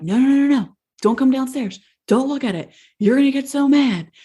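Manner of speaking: acting out her own alarmed pleading; panicked plea. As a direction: rush out a retold, anxious "no, no, no". Frantically warning David off the mess.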